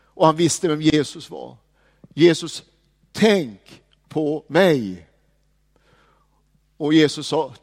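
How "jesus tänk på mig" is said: very slow, humble plea, drawing out "mig"; a thief's humble plea, slowed right down; humble prayer. Retold or imitated. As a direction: pray it meekly, stretching each word. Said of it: "en ödmjuk bön".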